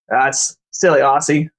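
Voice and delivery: put-on light Aussie accent, teasing; a hint of Australian twang. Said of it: "I just did that in an accent".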